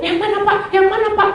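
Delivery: high, anxious repeated question; retold flustered searching. Passenger asks driver which rider it is, retold flustered searching. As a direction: ask in a high fluster, laughter underneath.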